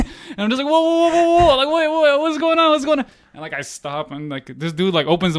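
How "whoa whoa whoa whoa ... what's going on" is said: high, loud, rapid-fire pleading whoas; retold panic. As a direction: act out being startled at gunpoint. Panicked reply to soldier aiming gun.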